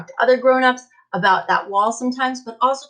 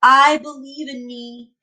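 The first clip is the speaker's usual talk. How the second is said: modelled affirmation; 5 dB louder, slower than usual. Shown as a demonstration. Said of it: "Point to yourself and say".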